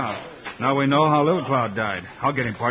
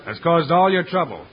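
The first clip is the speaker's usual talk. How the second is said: formal proclamation; 2 semitones higher, slower than usual. Acted. Hero addresses the tribe.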